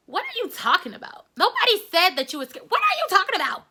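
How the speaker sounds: high, loud protest; high, incredulous denial; disbelieving. Retold or imitated. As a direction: insist nobody said it, rising in pitch. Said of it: "So I'm like".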